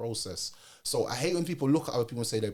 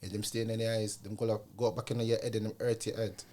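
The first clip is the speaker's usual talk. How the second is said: imitated Jamaican accent, kept soft; 4 dB quieter than usual. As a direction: softly quote granddad in Jamaican patois tones. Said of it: "he said it in a Jamaican accent".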